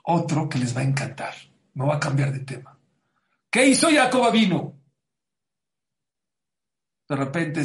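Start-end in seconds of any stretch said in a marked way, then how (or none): 3.5-4.8 clickbait video narrator. Acted. Teaser question to audience.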